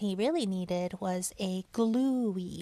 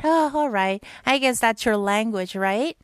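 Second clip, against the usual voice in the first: put-on Boyfish voice; 6 dB louder than usual. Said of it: "I'll do the Boyfish".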